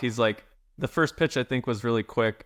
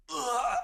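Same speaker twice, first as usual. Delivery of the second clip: retching groan; 6 dB quieter than usual. Retold or imitated. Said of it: "this noise that I've never heard him make".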